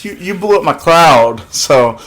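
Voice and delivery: mock high Goku voice; imitating Goku. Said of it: "He's like".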